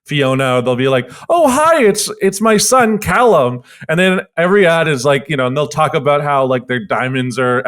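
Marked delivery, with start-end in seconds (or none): 1.3-3.6 lightly voiced Scottish woman, bright high greeting; a hint of a chirpy Scottish mum. Ad character introducing her son, light Scottish lilt. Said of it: "have the Scottish woman".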